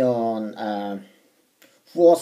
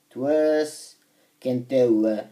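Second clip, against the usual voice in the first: "työskentelyä" drawn out at half speed; careful, slow second go at "työskentelyä"; slow sounding-out; much slower than usual. Real, not acted. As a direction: sound out "työskentelyä" slowly, part by part. Repeats stumbled word slowly.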